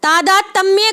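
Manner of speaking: "तादात्म्य" padded out as taa-daat-tam-mye; wrong form "तादात्म्य", taa-daat-tammye; mispronounced word. Shown as a demonstration. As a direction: say "तादात्म्य" with an extra tam before the ending. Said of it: "कुछ नहीं होता".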